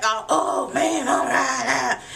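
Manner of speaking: slow pained moans; hurt groaning. Retold or imitated. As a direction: groan like an injured man in the woods. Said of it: "He's like".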